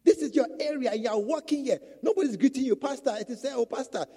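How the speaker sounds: emphatic scolding preaching. Real, not acted. Preacher scolds pastor, loud.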